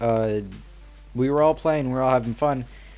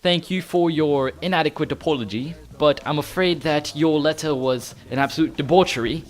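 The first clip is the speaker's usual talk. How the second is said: high, loud, indignant mock-British; proper British accent; 4 semitones higher, 4 dB louder than usual. Gamer recreating his friend's heated message, indignant British accent. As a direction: put on a stuffy, affronted British accent. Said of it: "just proper English, British".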